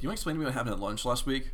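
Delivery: fast and accusing, voicing the teacher; a teacher's pointed demand, hurried; mild mock of an intense accusing teacher. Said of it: "very accusingly and intensely says to me".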